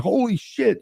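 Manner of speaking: high, drawn-out mock astonishment; imitating freaked-out companions. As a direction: mimic stunned non-believers, pitch up. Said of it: "are freaking out".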